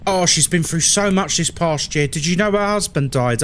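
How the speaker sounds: lightly voiced sighing nan; a hint of a mournful old nan; British nan impression. Streamer's nan lamenting a poor neighbour, lightly voiced. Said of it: "I just did an impression of every white British person's nan".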